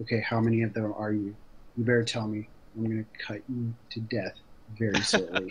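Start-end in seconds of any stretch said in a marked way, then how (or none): none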